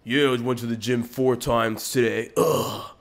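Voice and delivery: loud mock party-bro voice with grunts; imitating a buff bro trying to get girls; douchey gym bro. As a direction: puff it up like a show-off gym tool. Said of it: "dudes that are, like, always in the party".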